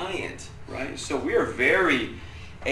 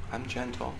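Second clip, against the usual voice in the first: faked gentleness; 2 semitones lower, 12 dB quieter than usual. Dad forcing himself to seem gentle, faked gentleness. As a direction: say it very softly, putting gentleness on. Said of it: "I could have faked it".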